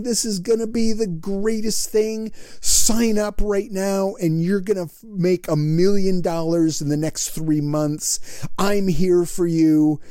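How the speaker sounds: high-pitched webinar sales pitch; salesy hype. Retold or imitated. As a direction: pump it up like an infomercial host. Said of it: "energetic and off the chart".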